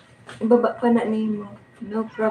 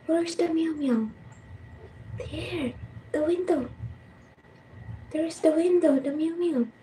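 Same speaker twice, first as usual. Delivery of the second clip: hushed; 6 semitones higher, 7 dB quieter than usual. Real, not acted. Quietly pointing out cat.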